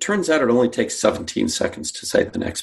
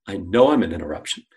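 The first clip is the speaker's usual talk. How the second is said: KNOW leaned on firmly; stress on KNOW; 3 semitones lower than usual. Shown as a demonstration. Rep admitting being the problem, KNOW stressed. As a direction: own up, hammering KNOW. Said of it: "you hammer the word no".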